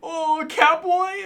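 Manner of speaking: high, slow, drawn-out mock taunt; mocking troll taunt. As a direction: stretch it out high like a sneering troll. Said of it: "the other troll is they're like".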